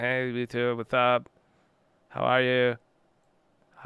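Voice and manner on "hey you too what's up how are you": put-on quiet, soft voice sounding like a twelve-year-old. Reacting to an old video of himself, imitating his quiet, young-sounding voice. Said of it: "I'm like quiet".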